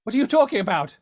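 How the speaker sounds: a Civil War-era Englishman who doesn't know where he is; lost old-timey caller. Acted. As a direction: sound lost and startled by it all.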